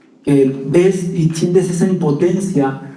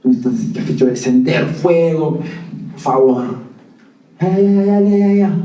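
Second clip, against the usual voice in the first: impatient God; 2 semitones lower than usual. Pretend. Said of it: "le hubiera dicho".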